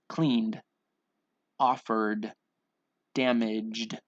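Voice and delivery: crisp word list, each ending in a voiced d; measured, one-word-at-a-time pronunciation drill; final D sound. Shown as a demonstration. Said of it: "We just have that D sound".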